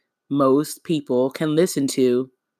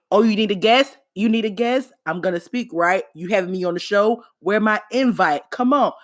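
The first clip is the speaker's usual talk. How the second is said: lightly voiced eager friends begging for a spot; a hint of friends angling for an invite; imitating pushy friends; 5 semitones higher, faster than usual. Host mimicking friends demanding to be guests, mock eager. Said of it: "I have received so many".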